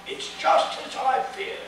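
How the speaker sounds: high, breathy put-on bellman; a high whispery bellman voice, resigned; voiced bellman, high and hushed; bellman's gloomy remark. A narrator's reading. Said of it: "the bellman remarked".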